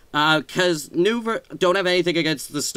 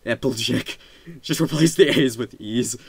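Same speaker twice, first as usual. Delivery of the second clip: southern accent; 4 semitones lower than usual. Shown as a demonstration. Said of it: "same accent as Applejack".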